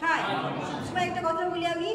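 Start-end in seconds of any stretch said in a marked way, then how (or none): 0.0-0.2 হাই gliding clearly into a short "i" at the end; short i sounded. Shown as a demonstration. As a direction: model হাই with its closing i pronounced. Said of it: "রস্বইটা উচ্চারণ হবে".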